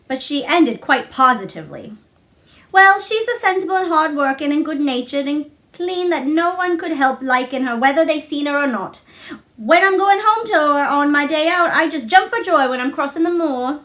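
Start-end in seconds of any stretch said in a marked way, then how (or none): 2.7-13.8 a cheerful Yorkshire maid, higher; bright housemaid voice, a bit higher; Martha, lightly voiced. Martha praising mother.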